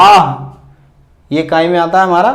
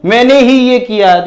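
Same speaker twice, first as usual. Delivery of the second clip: higher, insistent "मैंने ही"; mild mock boast, "ही" stressed; 4 semitones higher than usual. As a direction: claim it, pushing on "ही". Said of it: "उस पर हम जोर दे के बोलते हैं".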